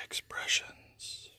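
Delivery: slow, soft perfume ad whisper; sultry perfume ad. Pretend. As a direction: draw it out like a luxury fragrance tagline. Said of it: "You have to say it like a perfume commercial".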